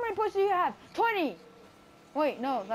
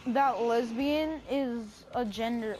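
slow, drawn-out mock-dim delivery; silly girl character; 3 semitones lower, slower than usual. Introducing a character from Wisconsin, slow and mock-dim. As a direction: draw each phrase out slowly.

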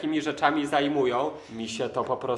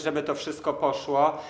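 ordinary talk, nothing marked

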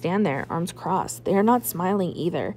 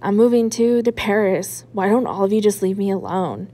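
louder, a daughter yelling at her fighting parents; a louder, upset outburst; upset shout; 5 dB louder than usual. Acted. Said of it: "I shout".

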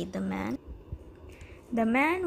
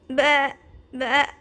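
loud bleating; sheep baa; 3 semitones higher, 8 dB louder than usual. Acted. Narrator voicing the sheep, loud bleat. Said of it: "The sheep said".

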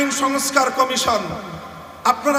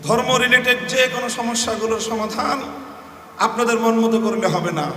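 calm, gentle warning; calm gentle advice; 2 semitones lower than usual. Real, not acted. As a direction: advise calmly and firmly. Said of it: "খুব শান্ত নম্র ভাষায় পরামর্শ দিচ্ছি".

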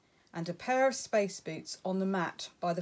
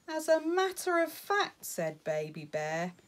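little bear voice; 4 semitones higher, 4 dB louder than usual. Acted. Cub tells his adventure.

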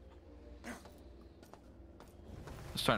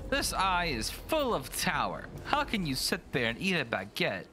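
mock French; 5 semitones higher than usual. Joking mock French rant.

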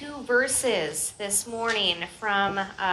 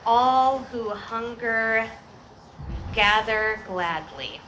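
announcing a title; slower than usual. Acted.

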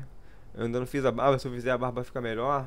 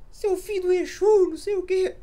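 put-on much higher, louder kid's squeaky insult; 7 dB louder than usual. Boy from the Bahia Fight video yelling back in a squeaky voice. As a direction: squeal it like a bullied kid snapping back. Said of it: "que tinha um neguinho".

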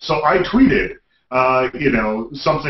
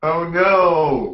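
mock panic; 4 semitones higher than usual. Panic at zombie bath salts.

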